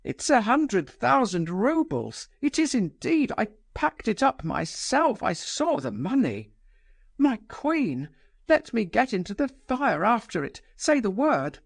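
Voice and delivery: lamenting. Acted. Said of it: "lamented Lebedev".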